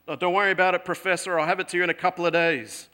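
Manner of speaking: breezy and careless, quick at the end; student brushing off the professor's demand; casual brush-off. Retold or imitated. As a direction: shrug it off like it's nothing.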